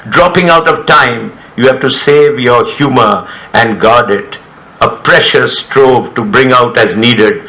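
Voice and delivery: measured poetry recital, line by line; poem reading. Acted. Poet reading a poem about coma and time, measured recital. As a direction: let each line land, then sink at the close.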